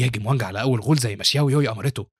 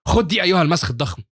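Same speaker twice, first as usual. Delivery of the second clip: higher-pitched attacking shout; battle cry; 5 semitones higher, 3 dB louder than usual. A narrator's reading. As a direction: taunt the monster while charging. Fighter charges at the boss.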